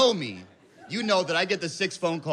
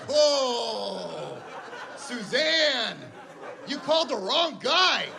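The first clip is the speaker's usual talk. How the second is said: stoned indignant reply; 7 semitones higher, slower than usual. Retold or imitated. Stoned husband to wife, mock defiant. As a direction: defend backpack honor, stoned and indignant. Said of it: "And I'm just like".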